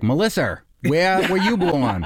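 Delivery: "Melissa" said as Melisser, an R tacked on the end; mock Boston Melisser with a laugh; intrusive R. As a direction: imitate a Boston mom, Melisser. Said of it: "added to the end of words that end in vowels".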